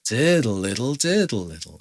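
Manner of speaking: long leaning "diddle", snapped "little"; swing and snap. Shown as a demonstration. Teacher swings first two, snaps second, "diddle little". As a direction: lilt "diddle little", fading on the last "little". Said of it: "snapping the second two".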